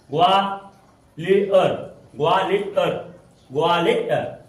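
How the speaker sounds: ग्वालियर slowly in pieces, "gwaa-li-ar"; demonstrated pronunciation. Shown as a demonstration. Teacher shows how the letters sound, ग्वालियर stretched as "gwaa-li-ar". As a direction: draw out each syllable of ग्वालियर. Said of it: "इसका जो उच्चारण है".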